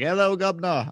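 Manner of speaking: high-pitched mock British greeting; attempted British accent. Shown as a demonstration. Showing friends why his accent attempts fail, high mock British accent. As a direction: try a hammed-up British accent that misses. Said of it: "a British accent or be like".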